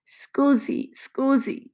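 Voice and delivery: high, loud plea for attention; urgent, begging repetition; pleading. Acted. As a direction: call out imploringly in Italian. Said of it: "she pleads".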